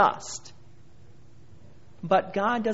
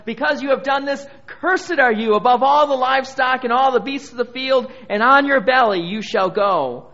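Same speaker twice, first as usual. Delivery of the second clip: raised, louder voice laying down a curse; God pronouncing judgment; 6 semitones higher, 7 dB louder than usual. Acted. God answering Satan with a curse, loud forceful pronouncement. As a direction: proclaim the sentence with force. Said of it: "So God's response to him was".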